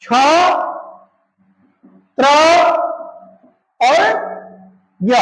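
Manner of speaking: छ, त्र, ज्ञ each said alone with long pauses between; spelling out letters. Shown as a demonstration. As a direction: sound out छ then त्र then ज्ञ one by one. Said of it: "अब है संयुक्ताक्षर में छ त्र ज्ञ".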